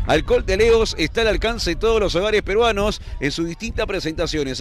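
upbeat radio commercial read. Acted. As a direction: sell it like a sponsor spot. Commentator reads sponsor ad.

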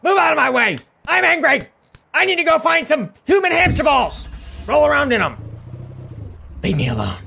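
mock angry frog. Frog shoving people, angry role voice.

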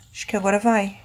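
whispered to herself. Real, not acted. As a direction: whisper while sneaking. Sneaking, whispered.

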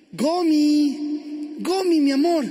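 drawn-out call through the house. Acted. Husband coming home looking for his wife, calling out.

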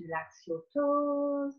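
calm relaxation guide. Shown as a demonstration. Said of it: "progressive muscle relaxation".

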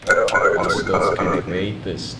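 put-on slow, loud proud bellow in Polish accent; patriotic shout. Inspector praising his country, slow loud Polish accent. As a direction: boom it out like a zealot. Inspector proclaims national slogan.

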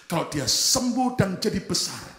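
slow, acted-out pleading prayer; drawn-out plea, sinking at the end; crying prayer. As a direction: imitate a weeping parent begging God.

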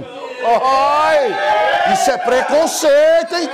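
high, loud, slowed protest of fake indignation; hammed-up cry of offence; mock outraged shout. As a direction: yell it as if deeply offended, hamming it up.

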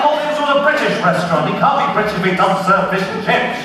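fast, high, outraged protest; an affronted Englishman, quick and high; indignant. Acted. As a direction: sputter it out in disbelief. Indignant diner expects fish and chips.

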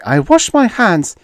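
high, loud indignant exclamation; Miss Mule. A narrator's reading. Miss Mule washing her hands of the matter, exclaimed. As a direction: exclaim it well up in pitch. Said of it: "Miss Mule exclaimed".

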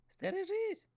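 loud, high warning cry; shouted. Acted. Seagull warning the fisherman of the serpent, loud. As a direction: shriek the warning. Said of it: "закричала чайка".

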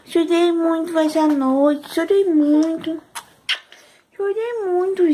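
put-on high, slow voice speaking for the baby; mother speaking as her baby in a high baby voice.

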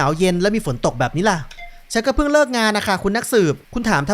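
put-on detective questioning a young woman; wary back-and-forth, lightly acted; lightly voiced detective exchange. (พากย์นักสืบคุยกับหญิงสาวแบบเบาๆ)

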